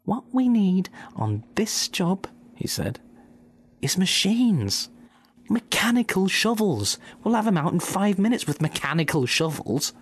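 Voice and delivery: a farmer proudly proposing machines; scheming farmer Bean. Acted. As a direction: lay out the plan like a smug boss. Bean voiced in story.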